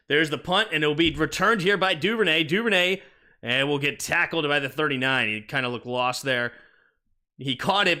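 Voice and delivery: lively punt return call; play-by-play. Acted. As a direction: call the return, then set up the next drive. Live game play-by-play.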